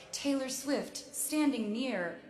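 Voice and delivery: slow headline, then a punched mock warning; mock tabloid headline. Star imitating articles about her, mock-alarmed headline voice. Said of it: "every article was like".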